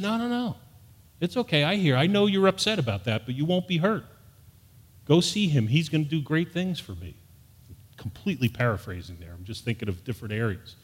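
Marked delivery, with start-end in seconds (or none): 0.0-7.1 gentle reassurance. Retold or imitated. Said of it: "And the Lord said".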